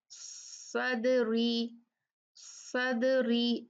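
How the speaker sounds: सदरी drawn out very slowly, dal said light; light dal demo. Shown as a demonstration. Teacher sounding out a light dal for the class, very slow. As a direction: stretch सदरी syllable by syllable. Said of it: "ये heavy होगा, light होगा".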